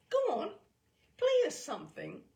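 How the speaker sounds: high, loud urging; coaxing woman. Acted. Fragrant woman urging the boy to play, high and loud. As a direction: coax the kid to play.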